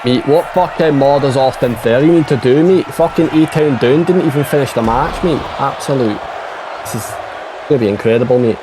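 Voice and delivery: put-on playful Scottish-accented complaint. Co-commentator griping about an unfinished match, Scottish accent. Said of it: "Like my Scottish accent".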